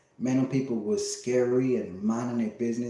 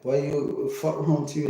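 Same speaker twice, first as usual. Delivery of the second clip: higher and louder, a heated "fuck wrong with you"; indignant, raised retort at the man; mock angry shout; 6 semitones higher, 4 dB louder than usual. Retelling the bathroom stranger, a hot raised retort.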